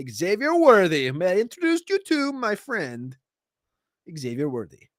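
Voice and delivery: lightly put-on Borat, barely different from own voice; a faint hint of Borat introducing a friend. Host introducing his player in a hint of Borat. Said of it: "that was my Borat voice".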